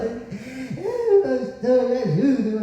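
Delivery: tearful little plea, put on; mock sob; imitated crying. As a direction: mimic a woman whimpering for help. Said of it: "Ela tá chorando".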